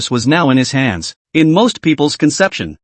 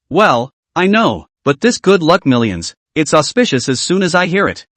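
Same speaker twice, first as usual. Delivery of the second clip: calm tone. Acted. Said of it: "tried to say in a calm tone".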